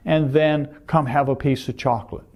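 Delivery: playfully inviting, lightly understated. Real, not acted. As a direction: offer it as a playful aside. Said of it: "I'm saying that playfully".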